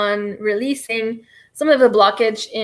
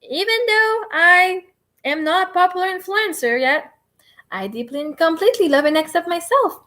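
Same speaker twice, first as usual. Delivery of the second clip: higher, bright chant of the affirmation; upbeat affirmation; 5 semitones higher than usual. Shown as a demonstration. Coaching viewers through an affirmation, higher and upbeat. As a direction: sing it out cheerfully. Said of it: "you would go like".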